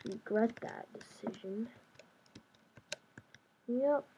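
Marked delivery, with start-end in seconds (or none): 0.0-1.7 slow, breathless whisper of a threat; whispered taunt. Real, not acted. Whispering to an unseen rival, a slow taunt. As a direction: hush it like a secret threat.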